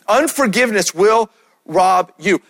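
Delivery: emphatic repeat. Shown as a demonstration. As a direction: land it firmly the second time. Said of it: "Would you write this down?".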